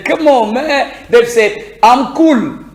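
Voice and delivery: lightly put-on British accent, L kept in "cool"; imitated British accent. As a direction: play a Brit chatting, sounding the L in "cool". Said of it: "les Britanniques, et ils disent". (imitation légère de l'accent britannique)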